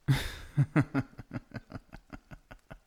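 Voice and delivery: long amused villain's laugh; sinister laugh. Acted. Vampire husband laughing to his wife about killing the king. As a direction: laugh off the idea of poisoning the king.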